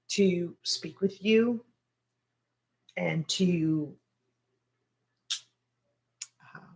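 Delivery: halting and tender, with long pauses; emotional gratitude. Real, not acted. Speaker thanking followers like family, heartfelt and emotional. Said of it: "I've been emotional".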